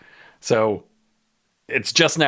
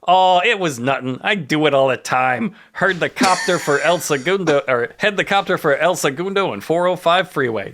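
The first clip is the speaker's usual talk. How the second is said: higher-pitched aw-shucks modesty; bashful; 5 semitones higher than usual. Acted. Escapee shrugs off the pilot's praise, mock bashful. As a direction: play it bashful, brushing off the praise. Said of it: "Death Row becomes genuinely bashful".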